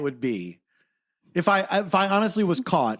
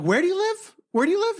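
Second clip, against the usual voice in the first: retold yelling; 12 semitones higher than usual. Yelling at the neighbor.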